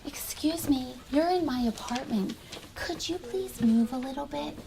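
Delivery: teacher softly quoting a student's kind words. Retold or imitated. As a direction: quote the child gently. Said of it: "she said".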